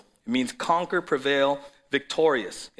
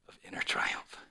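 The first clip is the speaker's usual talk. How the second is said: whispered; 6 dB quieter than usual. Acted. Quote ends in a whisper.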